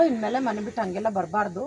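affectionate. Shown as a demonstration. Director shows how to advise a runaway child lovingly, affectionate. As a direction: tell them off lovingly. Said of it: "ಅಂತ ಪ್ರೀತಿಯಿಂದ ಹೇಳು".

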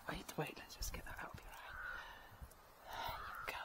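soft unvoiced whisper. Real, not acted. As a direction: whisper gently to the horse. Calming horse, removing something from eye.

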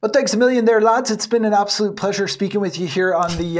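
hammed-up Irish accent that drifts Scottish; clumsy put-on Irish accent; bad Irish accent. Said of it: "me trying to do an Irish accent".

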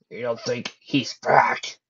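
slow, secretive whisper. A narrator's reading. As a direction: whisper so the kids can't hear. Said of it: "whispered so the kids could not hear".

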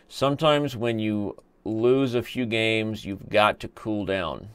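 drawn-out, measured repeat; slow and deliberate. Acted. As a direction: spell it out slowly. Repeats his own line slowly, deliberately.

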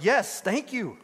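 a touch of delighted excitement; excited acceptance. Acted. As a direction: accept the gift eagerly. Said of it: "And they're excited".

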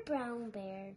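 plain reading voice

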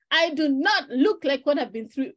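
loud, high preacher holler; T D Jakes hollering. Retold or imitated. Imitating T D Jakes shouting the line to the viewers. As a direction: shout it like a preacher at full force. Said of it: "when he's hollering and shouting".

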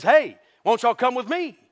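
casual call. Acted. Jesus calling the fishermen.

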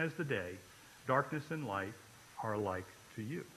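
measured, solemn reading of the psalm; scripture reading. Acted. Pastor reading Psalm 139 to the congregation, solemn reading voice.

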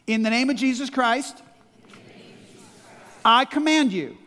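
firm, loud command. Shown as a demonstration. Pastor leading the church in a loud command. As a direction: order the spirit out with authority. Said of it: "repeat after me".

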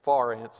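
"Far ants" with fire flattened to "far"; Texas pronunciation. Shown as a demonstration. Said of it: "that's Texas talk".

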